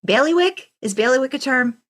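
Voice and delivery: Bailiwick? pitched high, bewildered, asking the room; bewildered question. Real, not acted. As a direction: toss Bailiwick up high in disbelief. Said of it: "Is that a word?".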